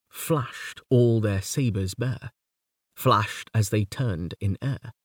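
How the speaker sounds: slow, weighted verse reading; dactylic verse reading. Shown as a demonstration. Lecturer reciting Tennyson to show the dactyl, slow. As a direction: stress Flashed at the start, slowly. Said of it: "The Charge of the Light Brigade".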